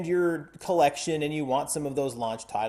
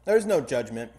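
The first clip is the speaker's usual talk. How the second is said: talking through a mouthful of peanut butter; words thick around a sticky bite; mouth full of peanut butter; 4 semitones lower than usual. Real, not acted. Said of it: "I've got peanut butter in my mouth".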